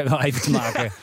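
chuckling through the words; a light laugh spilling into the line. Real, not acted. Host teasing the guest about cashflow, laughing.

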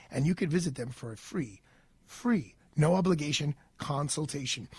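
steady, measured host-read sponsor spot; polished sponsor pitch, punching key details; radio ad read. Acted. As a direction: deliver it like a live radio commercial. Reads a law firm ad.

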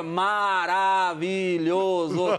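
MA-RA-VI-LHO-SO, each syllable long and punched; every syllable stressed. Shown as a demonstration. Singer joking that all syllables can be tonic, every syllable stressed. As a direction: slowly hit every single syllable of "maravilhoso". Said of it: "todas as sílabas são tônicas".

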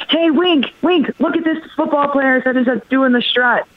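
lightly voiced dad eager to show something; imitated eager dad. Dad calling his daughter over to a clip, imitated eagerness.

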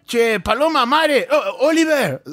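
a father fumbling names and shouting the last one; dad calling out names. Retold or imitated. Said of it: "ele fala".

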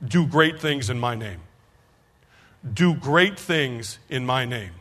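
slow, solemn divine voice, drawn out; voice of the Lord. Retold or imitated. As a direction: speak it slowly like a calm voice from above. Distinctly hear.

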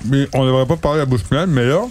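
talking while chewing; mouth full. Real, not acted. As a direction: speak round a mouthful of bread. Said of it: "commence une émission avec la bouche pleine".

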